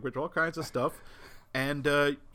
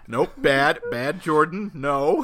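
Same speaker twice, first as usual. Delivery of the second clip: loud mock pet scolding; playful, forceful reprimand; scolding a cat; 8 dB louder, slower than usual. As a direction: tell off a naughty cat in short bursts. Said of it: "It's like talking to a cat".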